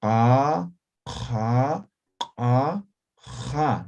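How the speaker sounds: "ja" rasped from the back of the throat; postvelar demo. Shown as a demonstration. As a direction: sound "A, ja" deep at the postvelar point. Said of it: "la articulación es postvelar". ("ja" postvelar, raspado al fondo de la garganta)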